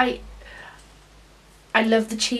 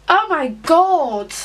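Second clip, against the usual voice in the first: shocked; 4 semitones higher, 3 dB louder, much slower than usual. Real, not acted. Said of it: "in shock right now".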